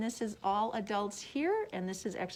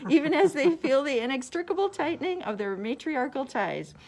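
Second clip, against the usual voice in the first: reading on while still laughing, a bit louder; laughing through the line; 3 semitones higher, 6 dB louder than usual. Real, not acted. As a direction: let the laugh carry into the words.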